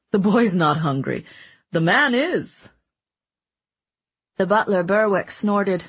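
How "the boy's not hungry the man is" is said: jovial glutton voice; Mancini voice. A narrator's reading. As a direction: boom it out like a greedy jester. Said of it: "Mancini said with a laugh".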